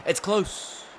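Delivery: high squeaky commentator call; high-pitched rising. Retold or imitated. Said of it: "they'd be like".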